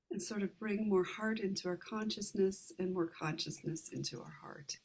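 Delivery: calm meditation guide, unhurried, with long pauses; guided meditation. Real, not acted. Meditation leader guiding listeners to relax the heart, calm guided meditation. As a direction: ease listeners gently through each step, leaving room to breathe.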